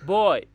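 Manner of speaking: बॉय as one smooth syllable; one unbroken beat. Shown as a demonstration. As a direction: say बॉय with no break inside. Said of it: "इसमें आवाज़ कहीं भी नहीं टूटी". (बॉय एक साँस में, बिना तोड़े)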